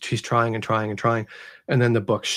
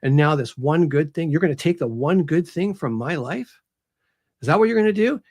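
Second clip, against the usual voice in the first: mild mock yell at God, building; retold angry rant; 2 semitones higher, 3 dB louder than usual. Author voices Aramis railing at God, mildly angry and building. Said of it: "screaming at God at the top of his lungs".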